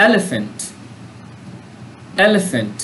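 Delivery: এলিফ্যান্ট with the first E punched; stress on the E. Shown as a demonstration. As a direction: lean on the opening E of এলিফ্যান্ট. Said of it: "ইর উপরে চাপ দেওয়া হয়েছে".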